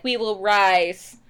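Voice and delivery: slow, mock-solemn proclamation; weird rebel slogan. Co-host mocking the rebels' cringy slogan, mock solemn. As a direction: intone it like a cheesy motto. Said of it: "like, weird".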